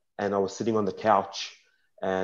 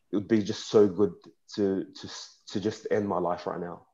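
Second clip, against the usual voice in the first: emotional. Real, not acted. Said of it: "I get a bit emotional".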